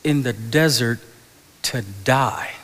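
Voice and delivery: high, loud whiny mock complaint, laughing; mock complaining Israelites. Pastor mocking the Israelites to Moses, hammed-up whine. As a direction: ham up the grumbling crowd begging for Egypt. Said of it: "looked at Moses and said".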